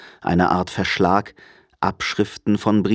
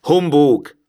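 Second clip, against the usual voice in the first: higher-pitched, grumpy outburst; grouchy old miser's scoff; dismissive scoff; 7 semitones higher, 5 dB louder than usual. A narrator's reading. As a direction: throw it out in contempt. Scrooge dismisses nephew's greeting.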